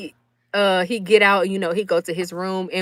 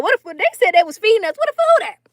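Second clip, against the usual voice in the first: much higher, fast demand; where's the promised food; mock indignant; 11 semitones higher, 4 dB louder, faster than usual. Hungry, asking about food.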